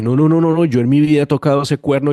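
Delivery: retold panicked refusal to the visiting pastor; emphatic refusal. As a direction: push back hard, a flustered refusal in front of everyone. Refusing to blow the shofar.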